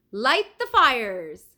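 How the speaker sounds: slow, loud command; shouted. A narrator's reading. Leonardo orders the fires lit, slow loud shout. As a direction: call the order out slowly across the hall. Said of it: "shouted Leonardo".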